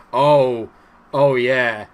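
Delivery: loud joyful oh yeah; excited celebration. Real, not acted. Gamer celebrating his striker's goal, loud and joyful. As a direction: whoop in delight.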